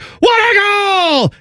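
high, slow, stretched-out goal call; mock goal call. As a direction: ham up the announcer's goal call. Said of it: "he's like".

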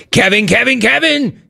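high, rising repeated call; excited name-calling. Pretend. Host excitedly summons next caller.

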